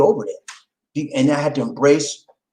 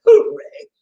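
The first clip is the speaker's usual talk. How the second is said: pretend crowd cheer; 7 dB louder than usual. Crowd call and response.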